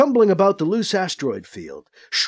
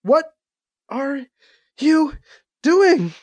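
alarmed; 10 semitones higher, much slower than usual. A narrator's reading. Alibi alarmed as Quintelle invades.

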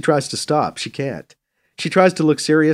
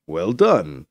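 low, dry approval; deadpan congratulation with a hint of smirk; 6 semitones lower than usual. A narrator's reading. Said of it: "Del says dryly".

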